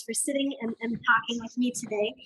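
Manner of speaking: hoarse, voice giving out; losing voice. Real, not acted. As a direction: rasp through a tired, hoarse voice. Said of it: "I'm losing my voice".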